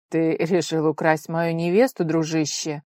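loud, put-on jolly exclamation; forced cheer. Fiancé teasing the rival friend, loud with forced cheer. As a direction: sound breezy but it's fake. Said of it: "С наигранным весельем воскликнул Герд".

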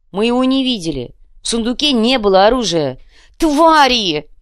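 high and loud, building to a scream; rising yell. Acted. Sakhar shouting at Krokhin, yell building to a scream. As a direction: yell back, climbing to the final insult.

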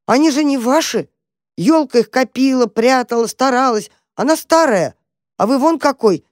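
high, bewildered little mouse; bewildered squeak. A narrator's reading. Mouse Tam pleading with the dog, squeaking. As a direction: squeak it out, at a loss.

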